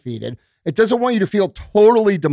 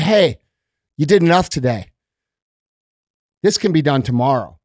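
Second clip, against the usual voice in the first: low sly coaxing that sinks lower to the end; creepy coaxing voice; 5 semitones lower than usual. Retold or imitated. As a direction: slip it in like a tempter, dropping the pitch. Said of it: "So it comes in real creepy-like".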